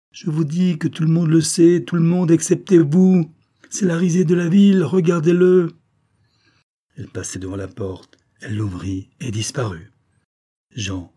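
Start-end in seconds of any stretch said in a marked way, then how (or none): 0.1-5.7 loud, high, sustained angry shout; furious shrieking. A narrator's reading. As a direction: yell the accusation, pitched high throughout. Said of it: "redevenue soudain furieuse, elle glapissait".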